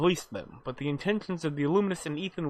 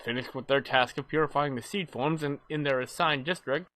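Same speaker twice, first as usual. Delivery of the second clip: story recap narration. Acted. Reads the game's story recap.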